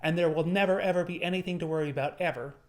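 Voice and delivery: naive cheery quote. Pretend. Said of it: "Optimism is not saying to yourself that".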